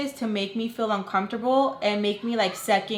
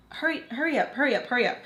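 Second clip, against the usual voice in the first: high, repeated hurrying; mock nagging; 4 semitones higher, much faster than usual. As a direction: imitate someone impatiently rushing you. Imitates her rushing the speaker.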